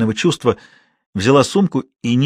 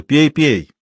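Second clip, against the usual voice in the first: louder, rousing toast; hearty toast; 3 semitones higher, 4 dB louder than usual. Acted. Man urges the girl to drink, toasting loudly. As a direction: raise the glass with gusto.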